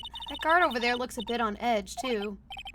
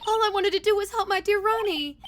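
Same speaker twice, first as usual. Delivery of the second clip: put-on Southern-American accent; 8 semitones higher, 6 dB louder than usual. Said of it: "mixture between an American and, like, Southern accent".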